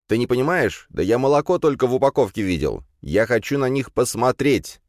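pleading with his brother to stop the car; eager young Kirill. Acted. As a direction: younger brother eager to see real cows.

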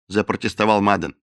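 usual speaking voice

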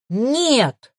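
hoarse, strained cry; strained hiss. A narrator's reading. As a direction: force it out with effort. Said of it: "надсадно прошипела".

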